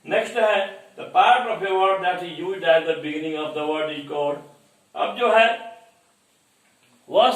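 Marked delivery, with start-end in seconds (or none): 1.0-4.4 slow, deliberate read-out of the question; slow dictation. Acted. Teacher reading the question to students, slow dictation. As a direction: read it word by word for the class to copy.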